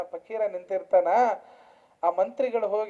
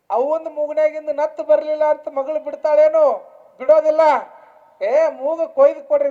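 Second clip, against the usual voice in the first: projected, raised sermon storytelling; preaching; 5 semitones higher, 8 dB louder than usual. Real, not acted. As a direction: call the warning out to the congregation. (ಎತ್ತರಿಸಿದ ದನಿಯ ಪ್ರವಚನ)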